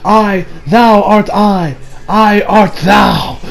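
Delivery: very slow, grand mock-theatrical reading; Shakespearean actor. Vlogger mocks the confession as Shakespeare, very slow and grand. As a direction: intone it like a pompous stage player. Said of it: "as if this was some Shakespearean play".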